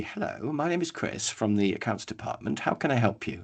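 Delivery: soft, measured mock-analytical phone greeting; structured, logical. Analytical answering from the accounts department, structured and logical. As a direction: answer formally and softly, like an analytical type. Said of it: "they're very sort of structured and logical".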